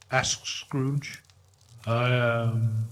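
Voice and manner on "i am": soft and gentle. Acted. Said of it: "The voice was soft and gentle".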